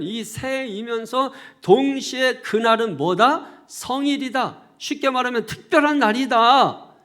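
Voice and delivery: loud, emphatic sermon climax; forceful preaching. Real, not acted. Preacher proclaims a new start to the congregation, forceful preaching. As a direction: proclaim it in weighty, punched phrases.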